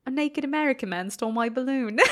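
put-on deadpan little British boy; clumsy British accent, played straight as a kid; bad British accent. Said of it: "apologies for my bad accent".

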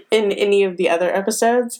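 slight whistle on s sounds from braces; talking through new braces. Real, not acted. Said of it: "if I'm whistling when I talk, I have braces".

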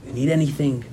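softly offering help; gentle, attentive offer; solicitous. Retold or imitated. Offering the girl anything, solicitous. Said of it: "The way I used to talk to the girl".

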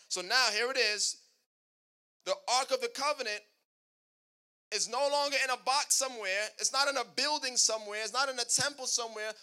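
building, emphatic preacher delivery; preaching. Real, not acted. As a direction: preach it with rising force to a loud peak.

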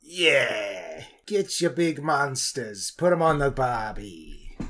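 a deliberately awful Aussie impression; cheesy Australian ad voice, badly faked; bad Australian accent. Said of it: "I can do a decent Australian accent. That was a bad one".

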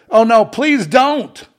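high, slow pleading oh no; mock pleading. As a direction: beg him in mock horror. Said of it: "It's like".

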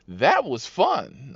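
slow, stretched retold delight; drawn-out rider reply. Rider after a second slide, drawn-out mock delight. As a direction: draw out each word, leaning on the first.

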